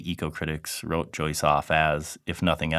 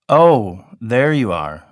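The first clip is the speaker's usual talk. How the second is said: cheery greeting; 5 semitones higher, 10 dB louder, much slower than usual. Acted. Bloom greets the cat.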